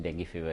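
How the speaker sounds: "डेंगू" said den-gee; exact pronunciation. Shown as a demonstration. Doctor confirming the exact pronunciation, "डेंगू" said den-gee. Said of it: "इसका exact pronunciation".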